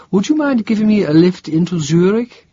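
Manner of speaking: a hint of a stranded young woman. A narrator's reading. Karen asks for lift.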